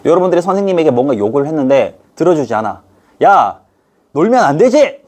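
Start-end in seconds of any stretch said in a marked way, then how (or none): 3.2-5.0 louder, higher mock scold; half-playful telling-off of the class; mock scolding teacher. Teacher refusing the students' demand in a mock scold. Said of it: "하면서 이제".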